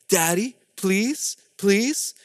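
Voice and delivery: put-on soft, slow toddler plea, rising at the end; polite little boy. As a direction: plead politely like a small child. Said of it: "he asked me so politely".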